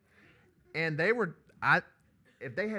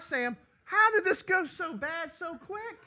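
inner thought; 8 dB louder, slower than usual. Retold or imitated. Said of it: "I'm thinking in my heart".

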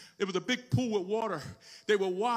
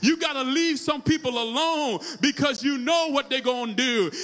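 raised, emphatic sermon push; full-force preaching; 5 semitones higher, 8 dB louder than usual. Real, not acted. Preacher tells church to leave some people alone, full-force preaching. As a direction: launch back into hard preaching.

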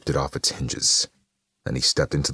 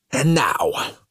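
very high, loud showman's announcement; Carnage crying out; 11 semitones higher, 5 dB louder than usual. A narrator's reading. Carnage to his cheering mob, high proclaiming cry. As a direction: proclaim it like a ringmaster. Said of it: "Carnage cried".

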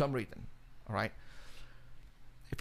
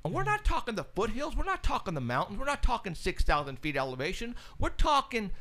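amazed excitement; 7 semitones higher than usual. Real, not acted. Amazed how close the sightings are.

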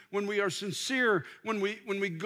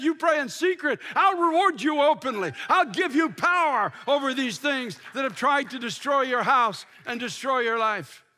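preached shout; 3 semitones higher, 5 dB louder than usual. Acted. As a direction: thunder the promise of Jesus. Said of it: "Jesus said".

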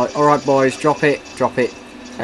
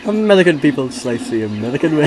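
laughing quote; 3 dB louder than usual. Retold or imitated. Quoting film laughing.

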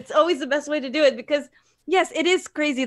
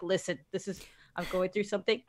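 soft honest admission; 6 semitones lower, 9 dB quieter, faster than usual. Retold or imitated. To a partner, quietly admitting a struggle. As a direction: lower and softer, owning up gently. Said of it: "Just be like".

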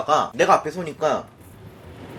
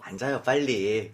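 smiling man; 8 semitones lower, 7 dB quieter, slower than usual. Retold or imitated. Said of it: "이렇게 웃으면서".

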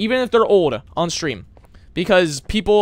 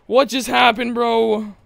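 raised-pitch, voiced-out bewilderment; baffled outcry; 4 semitones higher, slower than usual. Real, not acted. Reacting to game event.

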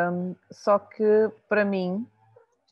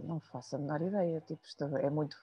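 softer, quick aside to oneself; retold bewilderment; 4 semitones lower, 9 dB quieter, faster than usual. Patient recalling her answer to the psychologist, quietly bewildered. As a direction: lower and quieter, as an inner reaction. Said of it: "E eu fiquei".

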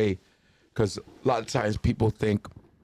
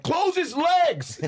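much higher, very slow call; yelling trainers; much slower than usual. Retold or imitated. Trainers calling to close comedian's legs, much higher slow. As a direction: stretch the order out. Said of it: "we're like".

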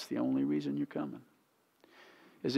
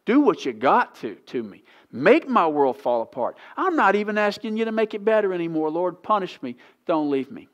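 loud, higher pleading surrender to the Lord; impassioned plea; 6 semitones higher, 8 dB louder than usual. Retold or imitated. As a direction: cry out to God in desperate surrender. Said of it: "Be like the Israelites that said".

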